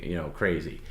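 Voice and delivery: normal talking voice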